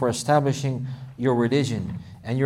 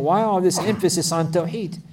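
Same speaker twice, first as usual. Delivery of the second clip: imitating critics, raised pitch and pointed questioning; indignant objectors; 5 semitones higher, 3 dB louder than usual. Critics questioning the focus on Tawheed, indignant challenge. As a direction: challenge them as an exasperated objector would. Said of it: "people questioning this focus, saying".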